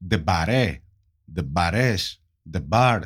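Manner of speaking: tentative attempts at "Ντεμπαρέ", "Ντεμπαρές", "Ντεμπάρ", each set apart; unsure pronunciation. Shown as a demonstration. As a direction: try "Ντεμπαρέ", "Ντεμπαρές", "Ντεμπάρ" in turn, pausing between each. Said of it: "Δεν ξέρω αν προφέρεται σωστά".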